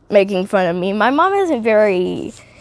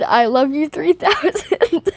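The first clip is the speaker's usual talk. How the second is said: mock Tony line; 6 semitones higher than usual. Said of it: "went up to Happy and said".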